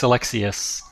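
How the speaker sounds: "Alexius" said slowly, ending in "-ee-us"; correct pronunciation. Shown as a demonstration. Guest corrects host on his surname, slow "Alexius" ending in s. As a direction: show how "Alexius" goes, final s, no k. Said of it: "is that pronounced Alexiuk?".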